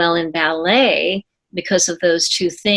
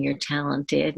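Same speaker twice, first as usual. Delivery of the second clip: kind encouragement; 4 semitones lower, 8 dB quieter than usual. Retold or imitated. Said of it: "being kind and saying".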